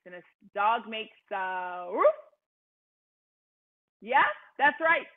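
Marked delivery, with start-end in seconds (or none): 1.9-2.1 a short quick woof; dog woof. Shown as a demonstration. Teacher showing kids the dog sound. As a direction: bark once like a friendly dog. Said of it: "make the sound of a, that a dog makes".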